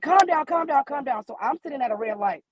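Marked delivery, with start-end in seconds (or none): 0.0-1.2 higher, urgent calm down from the sister. Retold or imitated. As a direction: sister in the passenger seat, pitched up, urging. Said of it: "She was like".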